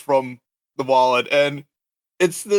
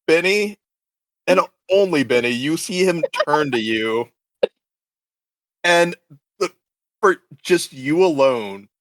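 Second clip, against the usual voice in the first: game master scene setting. Acted. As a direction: set an ominous scene with long pauses.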